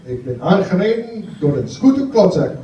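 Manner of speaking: a Dutch line in a lightly put-on Dutch accent; Dutch sentence. Shown as a demonstration. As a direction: drop a Dutch sentence like a local. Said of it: "I'll use it in a sentence".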